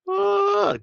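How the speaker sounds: very high amused squeal; shrieking ah of amusement. Real, not acted. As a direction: let out a high squeal of delight. Reacting to a funny comment.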